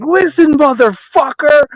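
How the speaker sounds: high, drawn-out mock fury; retold angry confrontation. Swamped waiter to joking customer, retold anger. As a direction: lunge into it, stretching the words.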